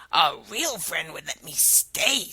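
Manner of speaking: frog voice. Acted.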